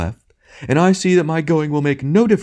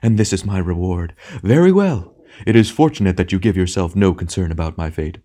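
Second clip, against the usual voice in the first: theatrical wounded outrage, pitched up in bursts; storming; 5 semitones higher, 3 dB louder than usual. A narrator's reading. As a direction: ham tragedian's indignant tirade. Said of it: "it stormed".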